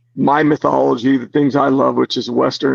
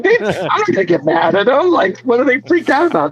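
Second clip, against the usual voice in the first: higher, mock-baffled self-quote; incredulous; 8 semitones higher than usual. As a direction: act puzzled why they'd be scared. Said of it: "I'm like".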